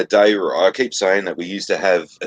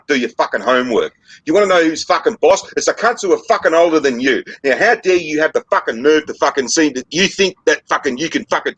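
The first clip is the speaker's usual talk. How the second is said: berating rant; 4 semitones higher than usual. Retold or imitated. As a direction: tear strips off a cheeky child like an enraged adult. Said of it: "we should be able to fucking tell them".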